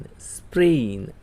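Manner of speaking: સ્પ્રેઇન said slowly as English sprain; teacher slowing down સ્પ્રેઇન for students; slow model word. Shown as a demonstration. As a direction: draw સ્પ્રેઇન out for the class. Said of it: "બોલો".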